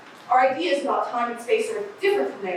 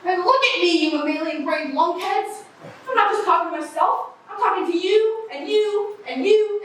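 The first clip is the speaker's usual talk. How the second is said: haranguing shout; 9 semitones higher than usual. Acted. Haranguing crowd, pointing at each.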